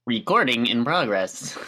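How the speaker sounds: stiff, measured robot announcement. Shown as a demonstration. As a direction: put on a silly robot voice. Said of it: "hear your best robot voice".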